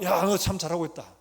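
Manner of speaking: loud, emphatic mock praise; big pretend pat on the back; acted praise. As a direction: call out hearty approval, as if to a daughter. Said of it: "이렇게 해야 되는데".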